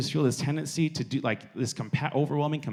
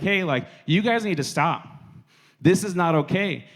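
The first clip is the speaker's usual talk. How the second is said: raised, firmer voice telling them off; firm confrontation; 4 semitones higher than usual. Acted. Student breaking up a school fight, firm. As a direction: step in and tell them to stop.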